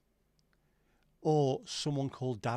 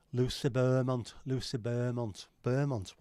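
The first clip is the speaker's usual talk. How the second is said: put-on slow Hull accent with squashed vowels. Mimicking Lucy Beaumont's name in Hull, exaggerated Hull accent. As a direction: say it slowly as Hull would, "Beaumont" as "Bermont".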